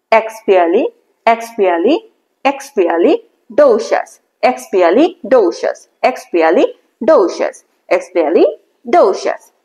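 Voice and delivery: slow chunked syllables, each chunk said on its own; teacher drilling the word part by part; slow part-by-part pronunciation drill; repeat after me drill. Shown as a demonstration. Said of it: "So, repeat after me".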